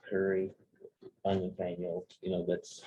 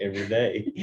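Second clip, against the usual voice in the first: laughing; 4 dB louder than usual. Real, not acted. Laughing reply to a joking question.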